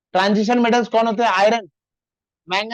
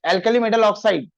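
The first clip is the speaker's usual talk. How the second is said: very slow, spaced-out words; unhurried classroom dictation; much slower than usual. Shown as a demonstration. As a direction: drag it out so the class can copy it. Teacher dictating formulas slowly.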